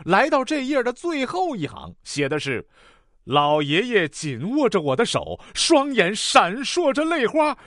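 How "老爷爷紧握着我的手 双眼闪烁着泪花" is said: slow, swelling dramatic reading; deep-feeling recitation. Acted. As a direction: recite it with mounting, hammed-up emotion. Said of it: "开始深情的朗读".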